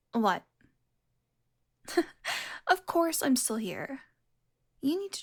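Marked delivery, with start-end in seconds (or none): 1.9-2.6 small breathy chuckle; short amused laugh. Acted. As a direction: puff out a brief, voiceless laugh. Amused by the hunter's question.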